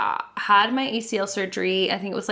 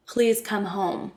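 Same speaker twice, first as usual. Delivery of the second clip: slow stoned text; 3 dB quieter, slower than usual. Retold or imitated. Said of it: "I'm trying to text Daniel".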